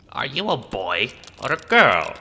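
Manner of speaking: high, loud call at the screen; loud demanding question. Acted. Asking the screen child if boy or girl, loud shout. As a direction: shout the question across the distance.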